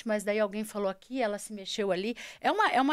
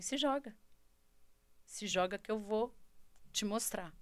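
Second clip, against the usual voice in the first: quiet voice; 10 dB quieter than usual. Retold or imitated. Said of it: "E ele falava assim".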